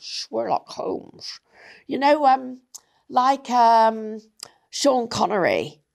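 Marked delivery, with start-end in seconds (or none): 0.0-1.4 put-on Sherlock Holmes accent. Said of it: "I wish I could do that accent".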